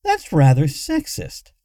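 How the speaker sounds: interrupting. A narrator's reading. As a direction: cut in with an objection. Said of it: "Luna interrupted".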